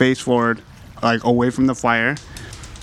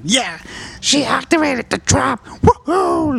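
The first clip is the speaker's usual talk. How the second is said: high cheering goblin voice; gleeful goblin; 13 semitones higher, slower than usual. Acted. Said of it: "They're like".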